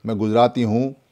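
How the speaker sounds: ordinary delivery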